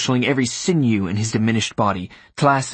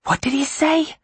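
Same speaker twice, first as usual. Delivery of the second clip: high, strained scream held in; panicked high-pitched cry in the head; inner scream. A narrator's reading. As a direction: scream it inwardly, pitched high without extra volume. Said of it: "Klaas screamed to himself".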